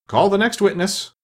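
high, ringing courtroom call; king's summons. A narrator's reading. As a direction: call out the witness as the king. King summons the witness in court.

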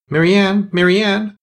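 loud, high-pitched summons; calling out. A narrator's reading. The Rabbit outside calling his maid, calling out. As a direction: call sharply for someone out of sight.

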